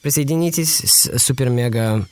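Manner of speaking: reluctant Russian man forced to say it; grudging Russian promo line; Russian accent. Shown as a demonstration. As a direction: say it in Russian with a resigned sigh. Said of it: "you sound exactly like a Russian man".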